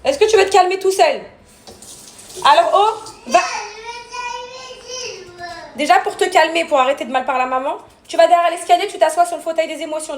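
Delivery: strict mother giving orders; stern orders. Real, not acted. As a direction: send him off firmly to calm down. Ordering son to calm down.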